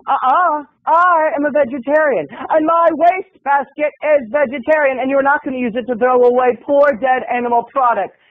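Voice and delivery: lightly voiced sanctimonious vegetarian; preachy roommate.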